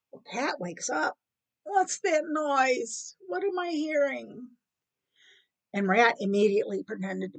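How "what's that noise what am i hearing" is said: slow, higher-pitched puzzled cat; lightly voiced cat, drawn out and higher; cat woken up. Woken cat asks about a noise, puzzled.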